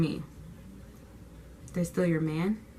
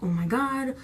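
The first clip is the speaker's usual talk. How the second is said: higher, louder retold panic; freaking out; 4 semitones higher, 4 dB louder than usual. Teen retelling first-day panic with no friends, freaking out. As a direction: act out a mild freak-out. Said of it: "I'm freaking out".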